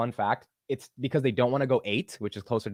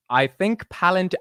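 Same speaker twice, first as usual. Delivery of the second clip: slow, higher-pitched try at British; attempted British accent; 7 semitones higher, 4 dB louder, slower than usual. Shown as a demonstration. Host retries British accent without going high, faltering British accent. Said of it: "I can't do it".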